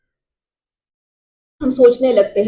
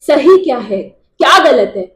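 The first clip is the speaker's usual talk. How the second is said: raised, urgent voice of doubt; louder, distraught questioning that builds in pitch; anguished questioning; 3 semitones higher, 4 dB louder than usual. Acted. Soldier haunted by war questioning right, wrong and God, anguished.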